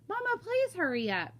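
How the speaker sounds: put-on high, whining kid's plea; urgent pleading. Kenny begs Mama to come outside, urgent pleading. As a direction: beg her to hurry. Kid begs mother to hurry.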